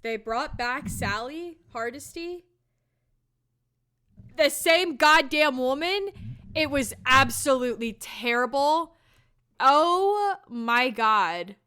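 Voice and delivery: fed-up outrage about a terrible movie; angry film rant; real rant. Real, not acted. Raging about Texas Chainsaw sequel.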